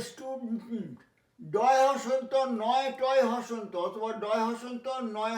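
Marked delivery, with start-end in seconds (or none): 0.0-1.0 স্টুডেন্ট as STU-dnt; correct STUDENT. Shown as a demonstration. Teacher announcing the pronunciation, স্টুডেন্ট with no e. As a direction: run d straight into nt in স্টুডেন্ট. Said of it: "উচ্চারণটা হবে".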